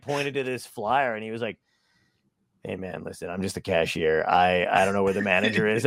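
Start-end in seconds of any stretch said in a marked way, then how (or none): 2.6-5.8 lightly voiced put-upon cashier pleading he's just staff; a hint of a sheepish cashier; apologetic cashier. Cashier voiced in retold story.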